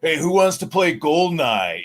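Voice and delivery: keen gamer calling out; excited. Retold or imitated. Dorm room chatter retold.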